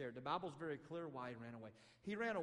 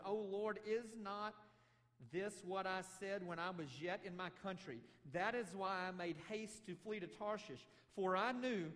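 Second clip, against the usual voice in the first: raised, higher voice of a bitter prophet protesting; Jonah complaining; 5 semitones higher, 4 dB louder than usual. Acted. Jonah protesting to the Lord, loud bitter complaint. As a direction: throw the complaint up at the Lord, louder. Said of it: "Jonah's about to complain about God".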